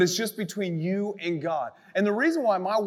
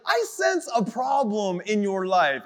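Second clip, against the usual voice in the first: mock TV psychic; slower than usual. Imitating TV psychic caller line.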